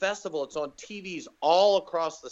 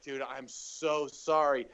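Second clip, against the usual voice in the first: slow, drawn-out sorry; dejected apology; 2 semitones lower, slower than usual. Retold or imitated. Comic apologising to his idol after the show, dejected. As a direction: apologise slowly, deflated. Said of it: "now I'm all dejected".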